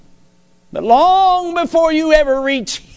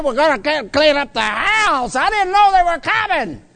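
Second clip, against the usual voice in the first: higher, rushed mock panic about surprise guests; flustered husband; 4 semitones higher than usual. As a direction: play the frantic husband barking cleaning orders. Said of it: "have you ever said to the wife".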